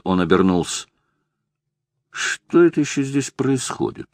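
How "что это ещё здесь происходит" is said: put-on drunk slur, words dragged out; drunk, struggling to speak. A narrator's reading. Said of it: "с трудом выговорил Джеймс".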